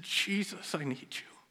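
soft whispered cry for help; whispered plea. Retold or imitated. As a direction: whisper it like a prayer from the dark. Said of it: "when I said".

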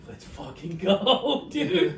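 loud, high, drawn-out hype cry with laughter; rally your buddy, half laughing; hyped-up rallying yell. Retold or imitated. Backing the boss against neighbors, retold hyped yell.

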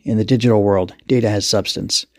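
even-toned explanation; unemotional, settled delivery; matter-of-fact. Acted. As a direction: state it as simple fact. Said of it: "said matter-of-factly".

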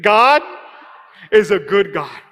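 loud, believing declaration; with conviction. Shown as a demonstration. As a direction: shout it like you mean it. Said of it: "now say it like you believe it".

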